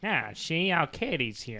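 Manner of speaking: soft gangster voice; quiet twenties hood. Acted. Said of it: "Like gangster".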